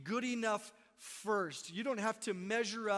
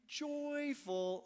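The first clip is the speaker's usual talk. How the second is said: mock weary quote; 3 semitones higher, slower than usual. Shown as a demonstration. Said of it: "Ugh, I'm already done".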